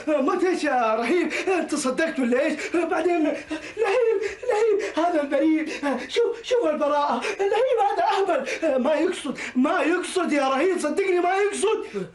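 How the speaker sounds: laughing nervously while making excuses; nervous laughter. Acted. Henchman laughing nervously to calm his boss. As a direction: laugh it off anxiously.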